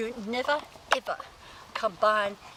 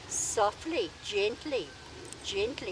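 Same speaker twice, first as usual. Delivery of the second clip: soft coaxing cue; slower than usual. Shown as a demonstration. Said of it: "cueing the dog softly".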